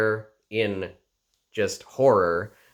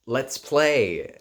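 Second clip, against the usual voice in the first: put-on a lightly raised, small childlike voice; little tiny voice; 5 semitones higher, 4 dB louder than usual. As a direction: play it as a tiny little girl, a touch higher. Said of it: "in her little tiny voice".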